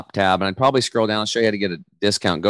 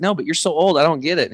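higher-pitched imitation of a puzzled son; acted bewilderment; baffled protest; 7 semitones higher than usual. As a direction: protest in mock disbelief.

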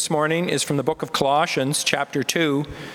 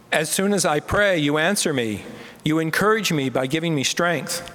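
raised, fervent liturgical reading; responsive psalm reading. Acted. Leader opening the responsive psalm for the standing congregation, raised. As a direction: lead the psalm so all can join.

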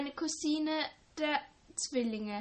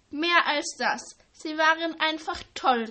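calling out excitedly; 4 semitones higher, 7 dB louder than usual. A narrator's reading. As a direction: call it out, thrilled about the holidays. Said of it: "rief sie".

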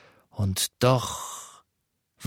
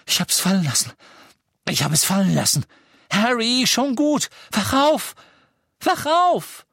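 put-on much higher, loud, urgent girl's voice; girl's voice calling; 13 semitones higher, 6 dB louder, faster than usual. A narrator's reading. Hermione calls Harry out of his nightmare, urgent. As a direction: rouse him gently but urgently.

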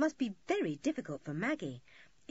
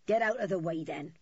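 surly growl, loud at the start; gruff growl; 5 dB louder than usual. A narrator's reading. Rower orders children out of his path, growling. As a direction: growl it, dropping away at the end. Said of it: "growled Dirty Dick".

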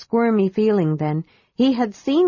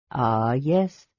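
low, grave dragon voice; 7 semitones lower than usual. A narrator's reading. Dragon answers the kender, low and grave. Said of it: "said Evenstar gravely".

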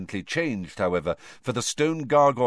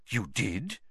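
sharp; 6 dB quieter than usual. Acted. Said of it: "said Dumbledore sharply".

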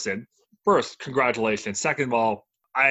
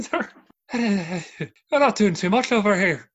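slow, higher mock Russian-style accent; put-on foreign accent; 7 semitones higher, 4 dB louder, slower than usual. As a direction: drag it out in a hammed-up foreign accent. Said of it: "Can you guess that accent?".

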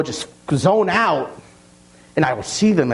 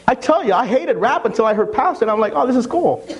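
laughing; 11 semitones higher than usual. Retold or imitated. Laughing retold conversion.

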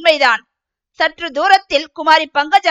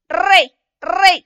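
calling to bullocks; 2 semitones higher, slower than usual. Acted. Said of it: "என்று மாட்டை ஓட்டத் தொடங்கினான்".

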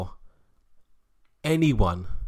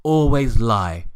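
lightly voiced vicar with a made-up accent, lecturing Teresa; preachy mock-vicar accent; imagined vicar's accent; 7 dB louder than usual. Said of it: "I'm putting his accent like that".

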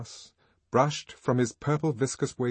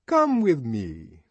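another tone; 3 semitones higher, 7 dB louder, much slower than usual. A narrator's reading. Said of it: "he called in another tone".

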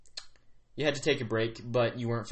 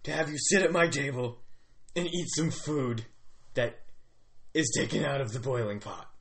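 lightly voiced grumbly chief, pitched up; 4 semitones higher than usual. Chief inviting visitors to his table, lightly grumbly. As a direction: play a chief with a weird accent. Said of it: "some sort of weird grumbly accent".

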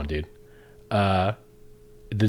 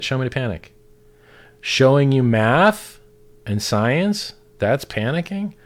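heated; 4 semitones higher, 4 dB louder than usual. Real, not acted. Heated reply to critics.

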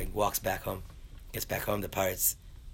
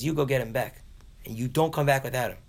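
higher-pitched acted command; wife's stern order; 4 semitones higher than usual. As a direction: lay down the law to a husband. Wife orders husband to fetch Yankel.

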